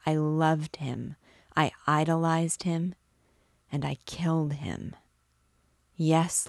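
hushed guilt-stricken confession to God; a broken man admitting his sin; grieving priest. Acted. Priest confesses brother's death.

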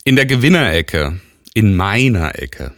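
loud, drawn-out ring announcer intro; boxing ring announcer. Pretend. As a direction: call it like a title fight. Boxing ring intro of his fighter.

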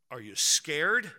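slow, lightly imitated deep-voiced dad; dad's deep voice. Dad asking his crying child, lightly imitated deep voice, slow. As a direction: ask slowly, with a hint of a dad's radio voice. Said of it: "got a real deep voice".

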